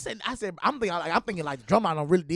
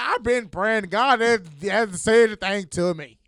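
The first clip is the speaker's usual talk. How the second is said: whiny complaint; 4 semitones higher, 8 dB louder, slower than usual. Retold or imitated. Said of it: "He's like".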